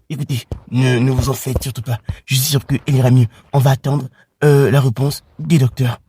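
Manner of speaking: a hint of a soothing husband; reassuring dad. Calming pregnant mother.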